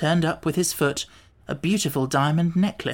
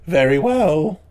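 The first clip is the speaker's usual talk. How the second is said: Gump voice; 6 dB louder, slower than usual. A narrator's reading. Gump answers.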